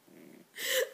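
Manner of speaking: riso curto, agudo, quase choroso. Acted. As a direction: solte um riso alto e emocionado. Lembra com emoção o ex-namorado. (risada curta, aguda e chorosa)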